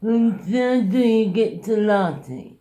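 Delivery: slow, high, loud imitation of a pestering stranger; obnoxious yelling. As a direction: bellow the question, dragging it out. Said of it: "this rather obnoxious Finn went".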